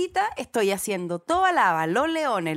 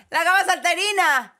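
high, drawn-out mock yell with laughter; imitated girl's yell; 7 semitones higher, 3 dB louder, slower than usual. Woman retells a girl yelling at her while jogging, mock yell. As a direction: imitate a kid calling out a taunt. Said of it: "una niña me gritó".

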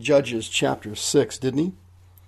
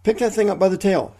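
mock yell; 6 semitones higher than usual. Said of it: "Jehovah yells at him".

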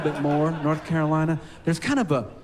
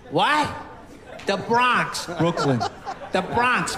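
put-on Bronx accent; slower than usual. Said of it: "the Bronx is in the lungs".

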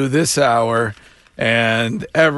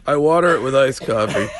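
laughing; much faster than usual. Real, not acted. Laughing admission, fast.

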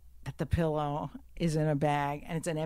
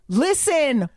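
loud, raised, telling her off; angry confrontation; 6 semitones higher, 9 dB louder, slower than usual. Retold or imitated. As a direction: lay into the mother. Retold angry confrontation on plane.

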